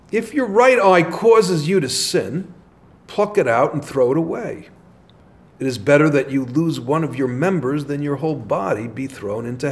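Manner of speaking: measured, emphatic Gospel reading; scripture reading. Acted. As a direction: read it out to a congregation, phrase by phrase. Reads the Gospel aloud.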